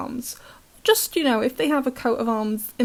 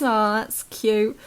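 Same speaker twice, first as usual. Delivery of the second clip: cooing; much slower than usual. Retold or imitated. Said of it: "they're all like".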